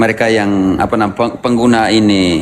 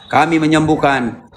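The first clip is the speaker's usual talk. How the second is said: mock cry, higher and drawn out; seruan tiruan; 4 semitones higher, slower than usual. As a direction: imitate people crying out, stretched, without real volume. (menirukan orang berseru, nada tinggi dipanjangkan)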